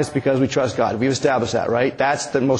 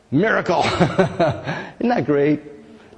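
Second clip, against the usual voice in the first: laughing; much slower than usual. Real, not acted. Laughs at the miracle story.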